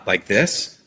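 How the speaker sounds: "like this" ending on a slow upward lift; rising inflection. Shown as a demonstration. Coach demonstrating the rising inflection with a slow upward tick on "this". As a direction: let "this" climb at the end like a question. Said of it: "It's an uptick in pitch at the end of a statement".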